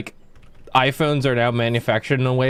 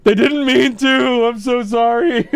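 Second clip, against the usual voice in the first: high, slow, hammed-up sorry; mock pleading apology; 9 semitones higher, 5 dB louder than usual. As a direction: grovel to the angry dwarves. Party apologizing to angry dwarves.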